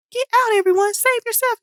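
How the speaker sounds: loud, high panicked yell. A narrator's reading. Teacher yelling for the class to escape, panicked. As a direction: scream a warning to flee. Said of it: "yelled Mister Egerton".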